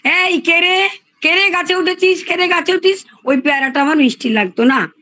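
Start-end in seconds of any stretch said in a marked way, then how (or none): 0.0-3.1 mock shout. Orchard owner calling up to a child stealing guavas, mock shout. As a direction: lightly act out challenging a thief. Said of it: "পেছন থেকে চিৎকার করে".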